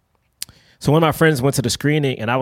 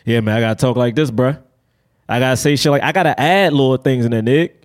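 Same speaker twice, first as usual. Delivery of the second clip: lower-pitched street audition voice; casual, lowered code-switched delivery; hood role voice; 4 semitones lower than usual. Shown as a demonstration. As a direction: talk like you're reading for a hood part. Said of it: "if I realize it's for a hood role".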